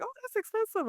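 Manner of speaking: high, soft mock reaction; mimicking commenters.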